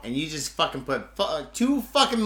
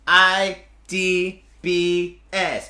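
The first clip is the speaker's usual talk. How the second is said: mocking drawl; 7 dB louder, much slower than usual. Mocking the company name.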